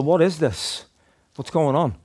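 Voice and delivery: mock bewilderment from a startled lad; shocked. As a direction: voice lifted in imitated shock. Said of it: "like, was in shock".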